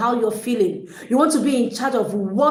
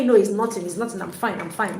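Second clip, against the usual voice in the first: sulky denial; 3 semitones lower than usual. Pretend. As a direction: pretend everything is fine while clearly upset. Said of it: "I can tell if you're angry with me from the tone of your voice".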